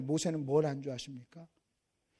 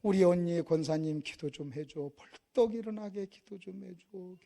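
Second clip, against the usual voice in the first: lightly voiced aunt begging, drawn out; slow plea, mildly acted; pleading aunt; 3 dB louder, slower than usual. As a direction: plead slowly as a worried relative. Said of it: "나보러 뭐라고 그러는지 아십니까".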